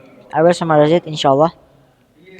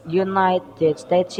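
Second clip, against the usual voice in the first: "United States" drawn out slowly, each syllable spelled out, softer and tentative with a rising end; slow careful United States; 2 semitones higher, 5 dB quieter, much slower than usual. Shown as a demonstration. Presenter testing the name for viewers, slow and careful. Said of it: "yes, United States".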